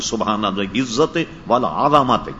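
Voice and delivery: slow recitation, والعظمت with an open za, "al-azamat"; model recitation. Shown as a demonstration. Cleric showing how the tarawih tasbih should be read, والعظمت slowly as "al-azamat". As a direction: recite it slowly, sounding every vowel in والعظمت. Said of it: "لہذا یوں پڑھا جائے".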